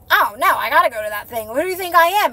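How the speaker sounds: mock put-upon whine; half-hearted complaining, a touch indignant; whiny complaining. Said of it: "I started complaining about it".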